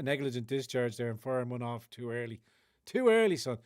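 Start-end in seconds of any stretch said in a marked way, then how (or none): 2.9-3.6 mock scolding. Mock jab at chat.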